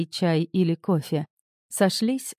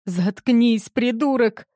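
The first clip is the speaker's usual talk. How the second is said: high shriek, shrill with rage; 5 semitones higher, slower than usual. A narrator's reading. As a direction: shriek at him to shut up. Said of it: "взвизгнула Кассандра".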